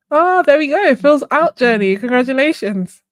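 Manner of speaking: high and loud, delighted; bright burst of congratulation; excited announcement. Real, not acted. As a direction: cheer the winner's name out. Winner announced in giveaway.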